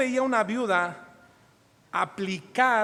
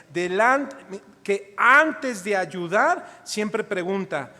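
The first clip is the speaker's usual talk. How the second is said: slow, loud and deliberate; emphatic slow statement; 4 dB louder, much slower than usual. Real, not acted. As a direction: lay out each word for the church. Slow emphatic sermon point.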